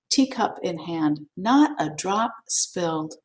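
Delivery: expressive, dramatic poem reading. Acted. Meditation teacher reading a poem to her class, expressive. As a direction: read the poem to the class with feeling.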